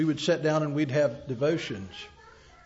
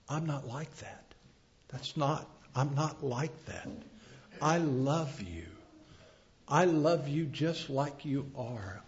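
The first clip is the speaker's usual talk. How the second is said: gentle fatherly God; 3 semitones lower, 6 dB quieter than usual. Retold or imitated. God voiced speaking to wife.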